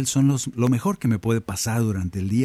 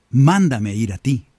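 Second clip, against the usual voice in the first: Peter's bold request; 6 dB louder, slower than usual. Retold or imitated. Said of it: "Y le dice".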